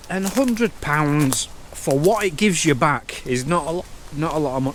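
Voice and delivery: speaking through hiccups; words broken by hiccups. Real, not acted. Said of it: "Sorry, I've got hiccups".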